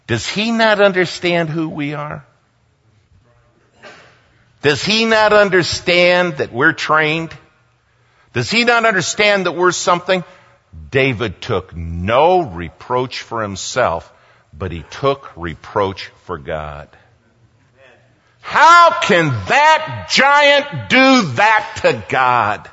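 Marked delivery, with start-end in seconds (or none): 0.1-10.2 high-pitched, indignant questioning; mock indignation. Voices the indignation David didn't show. 18.4-22.7 loud, high, slow cry of indignation; drawn-out, high-pitched outrage; outraged. Acted. Voices David taking reproach for God.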